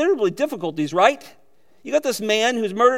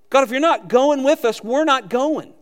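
firm prayer; 6 semitones higher, 5 dB louder than usual. Shown as a demonstration. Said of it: "It's a great prayer".

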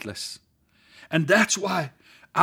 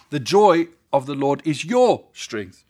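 "your" leaned on, slow and louder; stress on your; 4 dB louder than usual. Shown as a demonstration. Preacher offering another reading, stress on "your". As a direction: press on "your", slowly. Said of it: "Or you can read it".

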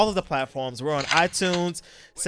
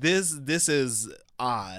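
puzzled; 3 semitones lower, 5 dB quieter, much slower than usual. Retold or imitated. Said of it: "but I was like".

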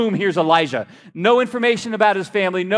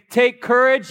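rallying call; 5 semitones higher than usual. Shown as a demonstration. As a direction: pitch it up to get a response. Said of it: "if I say".

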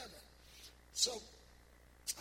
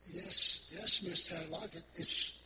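overwhelmed yes; 5 dB louder than usual. Retold or imitated. Stunned reply to the donation.

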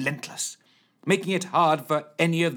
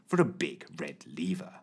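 whispering; 7 semitones lower, 6 dB quieter than usual. A narrator's reading. Whispered narration line.

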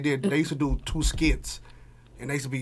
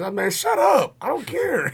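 laughing; 10 semitones higher, 4 dB louder than usual. Real, not acted. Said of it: "teasing friend about texts".

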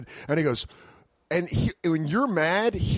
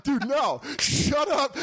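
irritated hush; 9 semitones higher, slower than usual. Retold or imitated. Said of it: "You're like".

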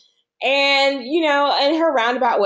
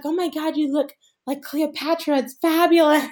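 mock gushing; 5 semitones higher than usual. Quoting Yo-Yo's gushing.

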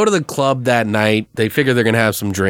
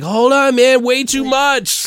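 high, slow, dopey stoner; lightly hammed stoner; 13 semitones higher, slower than usual. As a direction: play the wasted guy fumbling his coke. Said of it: "He's like".

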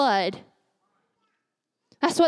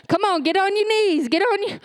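grandma ordering; 5 semitones higher than usual. Retold or imitated. Grandma makes the family kneel, commanding. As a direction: order them down on their knees. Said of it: "She said".

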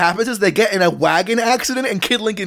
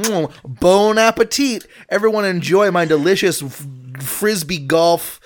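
mock fancy waiter. Mock-serves pizza Lunchable.

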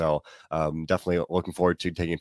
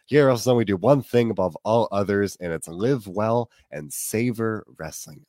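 slogan sign-off; 3 semitones higher than usual. Acted. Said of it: "usually we say enjoy wrestling".

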